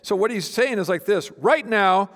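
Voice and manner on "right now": attention grabber. Shown as a demonstration. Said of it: "other ways you could translate this".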